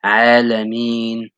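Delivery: "Alameen" slowly, ending like English "mean". Shown as a demonstration. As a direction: stretch "Alameen" so it ends in "mean". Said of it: "make it like mean".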